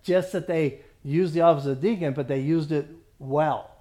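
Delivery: "well" held back by a pause, then set down by itself; stress on well. Shown as a demonstration. Teacher explaining the deacon verse, stress on "well". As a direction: pause before "well" to make it the point. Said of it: "The emphasis is on the word well here".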